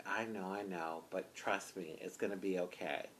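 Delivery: low, very soft soothing voice; hushed reassurance. Retold or imitated. Kind officer comforting the upset driver, hushed. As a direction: imitate him gently calming someone. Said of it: "whispering to me".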